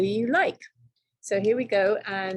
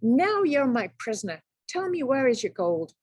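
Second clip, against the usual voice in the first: mild triumphant cry; a touch of a victorious shout; cried; 4 semitones higher than usual. Acted. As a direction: crow at the captured leprechaun.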